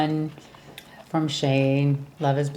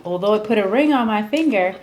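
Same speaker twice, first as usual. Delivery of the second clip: 2 semitones higher than usual. Retold or imitated. Woman refusing Mike access to her, mock indignant. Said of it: "Is how she's playing it".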